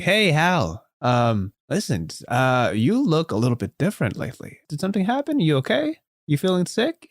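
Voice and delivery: high, eager jock buddy voice; concerned teammate. Acted. Best friend Sterling asks Hal what happened, high worried bro voice.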